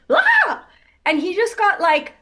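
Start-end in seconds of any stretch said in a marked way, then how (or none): 0.1-0.7 a high, loud yelp of surprise; a sudden high shout, laughing as he tells it; husband's startled yelp. Retold or imitated. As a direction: cry out as a wave knocks you down. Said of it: "I suddenly hear him go like".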